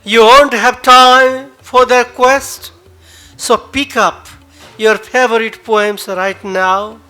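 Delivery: measured dramatic poetry reading; poem recital. Acted. Poet reading his own farewell poem to the audience, solemn.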